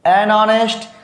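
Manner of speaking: silent h: "an honest" said "an onest". Shown as a demonstration. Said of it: "example करा है an honest".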